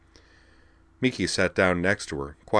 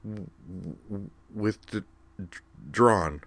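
amazed. Acted. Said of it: "still amazed".

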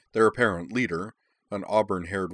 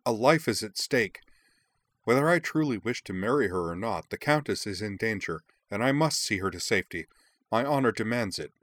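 lightly voiced earnest prince, higher; earnest young prince; 4 semitones higher than usual. Prince urging the adventurers, a hint of higher earnest voice. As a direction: insist with youthful conviction.

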